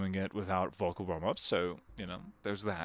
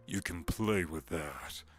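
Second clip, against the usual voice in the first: slow, going lower and lower; low chest voice; 3 semitones lower, slower than usual. Shown as a demonstration. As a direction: sink the voice lower each phrase. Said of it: "get really low".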